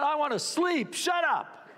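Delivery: high-pitched mock exasperation; acted sleepless irritation; exasperated outburst. Acting exasperation at barking dogs.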